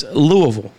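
Louisville said as "LOO-uh-vul"; corrective pronunciation. Shown as a demonstration. Host corrects co-hosts on the city, Louisville as LOO-uh-vul. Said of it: "No, it's".

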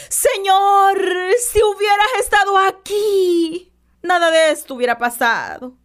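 grieving sister cries out to Jesus; tearful plea. Retold or imitated. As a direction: voice Marta begging through tears. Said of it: "me imagino a esta mujer llorando a moco tendido".

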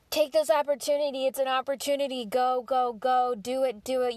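pep talk. Retold or imitated. Voicing her own past pep talk.

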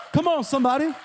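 calling out. Real, not acted. Calling out to congregation.

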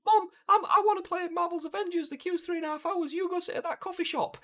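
put-on a kid nagging mum to go sit down; whiny child voice. Kid begging mum at convention.

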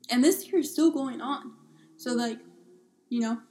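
talking through hiccups; interrupted by hiccups. Real, not acted. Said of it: "Sorry, guys, I have hiccups".

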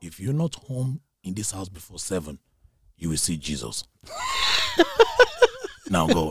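low, measured motherly warning; stern African mother. Retold or imitated. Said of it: "She goes".

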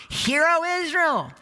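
soaring proclamation. Acted. Climactic Shema quote.

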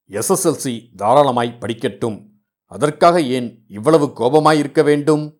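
light teasing remark; jokingly. Acted. Groom teasing the bride's brother, jokingly. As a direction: tease the boy with mock concern. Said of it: "ஹாஸ்யமாய்ச் சொன்னதை".

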